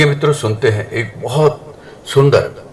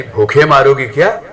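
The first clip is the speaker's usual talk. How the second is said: shouting; 4 semitones higher than usual. Acted. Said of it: "सास फिर चिल्लाई".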